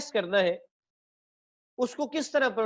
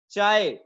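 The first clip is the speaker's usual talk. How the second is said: "चाय" drawn out as the strong syllable; stressed syllable; 3 dB louder, much slower than usual. Shown as a demonstration. Teacher showing which syllable stands out, "चाय" drawn out. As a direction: hold "चाय" long and firm. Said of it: "ऊपर है".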